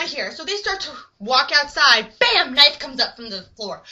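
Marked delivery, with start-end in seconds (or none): 2.2-2.5 loud, higher bam; imitated impact. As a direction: punch out a sudden impact.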